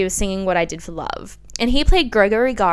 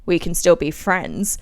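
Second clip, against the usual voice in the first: slow, low cliche; a hint of a lame boyfriend; mild careless breakup line; lightly voiced ex; 4 semitones lower than usual.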